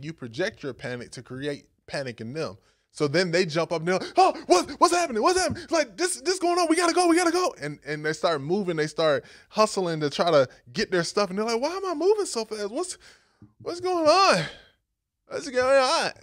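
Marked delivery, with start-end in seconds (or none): 4.2-7.5 high, loud mock panic. A man startled awake in the storm, high and loud in mock panic. 11.6-16.1 high, loud mock panic. A man startled awake in the storm, high and loud in mock panic.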